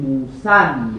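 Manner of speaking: teacher demonstrates موسن with a sounded final n; موسن with tanween. Shown as a demonstration. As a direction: drop the long final vowel, say موسن ending in -an. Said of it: "باید تلفظ کنیم". (موسن با تنوین، بدون الف کشیده)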